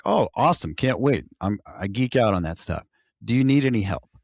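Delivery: mock eager colleague; eager offer. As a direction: retell your keen offer to help. Eager reply retold to new guy.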